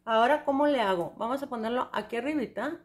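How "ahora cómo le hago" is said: mock panic. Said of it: "luego digas".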